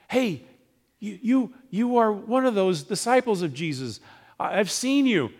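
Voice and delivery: high, loud, pointed accusation; a lightly voiced servant girl pointing him out; accusing servant girl. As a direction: call him out in front of everyone. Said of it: "but a servant girl".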